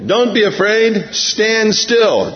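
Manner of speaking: nervous Moses; Moses unsure. Retold or imitated. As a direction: reassure while unsure yourself. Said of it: "Now he says this".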